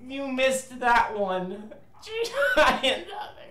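slow, mocking echo of the shooter's taunt; imitating the game voice. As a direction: drag it out like the game's taunt. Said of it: "They keep saying that every time".

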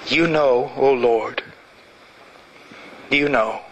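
low, hushed closing prayer. Acted. Pastor closing the sermon in prayer, low and hushed.

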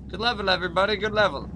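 good level shouted high and loud; excited praise. Real, not acted. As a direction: cheer everyone on, beaming.

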